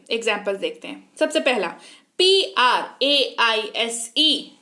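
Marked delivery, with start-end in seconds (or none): 2.2-4.6 each letter of पी आर ए आई एस ई said slowly and separately; slow spelled out. Shown as a demonstration. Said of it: "क्या बताया था?". (अक्षर धीरे-धीरे अलग करके बोलना)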